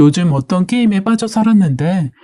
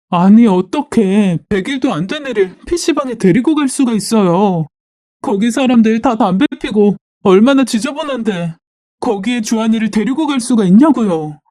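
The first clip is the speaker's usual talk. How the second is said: higher, plaintive complaint; tearful outrage; 4 semitones higher than usual. Acted. Wife complaining to husband and mother-in-law, upset indignant appeal. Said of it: "너무 분하고 억울해서 그리고 화가 나서 펑펑 울며 남편과 시어머니께 말했어요".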